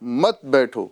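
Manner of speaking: مت بیٹھو as one falling group; مت بیٹھو together, dropping at the end; مت joined to بیٹھو. Shown as a demonstration. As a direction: run مت straight into بیٹھو. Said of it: "یہاں پر رک رہا ہوں".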